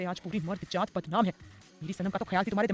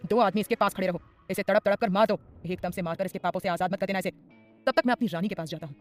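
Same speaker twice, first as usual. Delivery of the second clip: louder, commanding mafia boss order; angry order; 4 dB louder than usual. Acted. Adhir ordering his men, angry and loud. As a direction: bark it at his men in anger. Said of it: "गुस्से से बोला".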